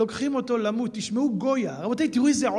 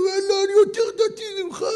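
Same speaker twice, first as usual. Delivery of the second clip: mock pious braggart, shouted high; mock boast; 10 semitones higher, 5 dB louder than usual. Preacher mocks a man boasting he is more religious. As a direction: lampoon a self-righteous show-off. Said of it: "איך זה נראה".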